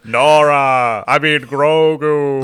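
Mister Freeze Luke. Retold or imitated. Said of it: "Mister Freeze tinge".

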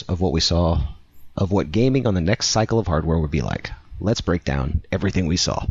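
measured news-article reading; article read-aloud. Real, not acted. Co-host reading a Kotaku article to listeners, presenter-style read.

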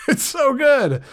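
high laugh through the words; laughing with delight. Real, not acted. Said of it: "Got a little excited there".

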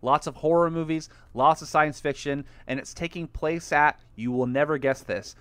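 lightly hammed ad read. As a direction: pitch the festival like a radio spot. Sponsor ad read.

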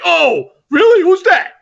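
high, loud mock eager surprise; imagined fan's interest. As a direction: play a fan suddenly hooked. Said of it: "Then he would have been like".

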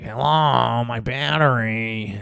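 slow stereotyped cartoon Jewish accent; Family Guy Jewish voice. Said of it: "stereotypical, like, Jewish guy voice".

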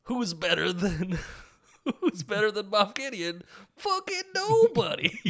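rising to a high yelled brag; boastful villain. Retold or imitated. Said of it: "Giancarlo Esposito's like".

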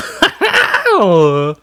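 imitating a smoker's laugh. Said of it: "Then he goes".

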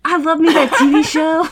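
put-on a light Southern accent, laughing. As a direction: toss off a playful hint of a Southern accent. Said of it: "I gave myself a southern accent there".

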